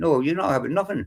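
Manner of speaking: ordinary talk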